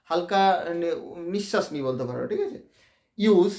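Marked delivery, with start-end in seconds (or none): 3.2-3.5 ইউজ said alone, then a short gap; pause after syllable. Shown as a demonstration. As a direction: break the word off after ইউজ. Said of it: "দেখো, একটু আমি ছাড়ছি". (ইউজ বলে একটু থামা)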